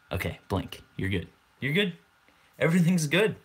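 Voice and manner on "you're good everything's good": higher, bright sing-song reassurance; perky singsong everything's fine; cheery reassurance. Real, not acted. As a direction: chirp it out to wake them up. Bright reassurance after the hypnosis bit.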